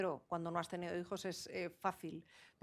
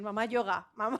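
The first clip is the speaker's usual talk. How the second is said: put-on laughing child's voice; 5 dB louder than usual. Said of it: "me dicen".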